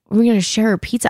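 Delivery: incredulous echo. Retold or imitated. She repeats the date's pizza plan in mild mock disbelief. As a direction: echo him as if it's absurd. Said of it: "And I was like".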